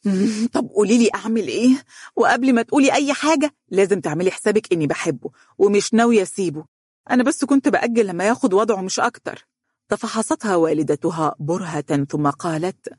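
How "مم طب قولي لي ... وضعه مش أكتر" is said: higher, irritated defiance; resentful. Acted. Donia answering her mother with irritated defiance. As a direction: push back, annoyed and stubborn. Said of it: "قالت بحنق".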